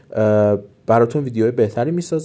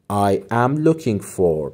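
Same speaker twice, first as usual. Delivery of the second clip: slow softer repeat; 3 semitones lower, much slower than usual. Shown as a demonstration.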